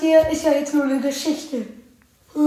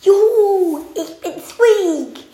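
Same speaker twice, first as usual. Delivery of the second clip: louder, higher happy cheer; excited cheer; 4 semitones higher, 4 dB louder, slower than usual. Acted. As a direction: cheer it out brightly. Squeak cheers.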